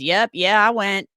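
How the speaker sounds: lightly voiced son, offhand; a casual hint of Billy; Billy impersonation. Host doing Billy telling his mom he went, lightly voiced. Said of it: "that's my Billy impersonation".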